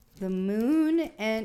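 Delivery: cracking voice breaking mid-phrase, drawn-out moon. A tarot reader naming cards for Sagittarius, voice cracking. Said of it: "my voice cracked like I was thirteen".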